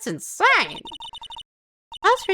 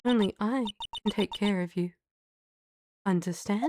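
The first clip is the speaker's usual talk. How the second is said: soft menace; 2 semitones lower, 4 dB quieter than usual. Acted. Violetta voiced, menacing.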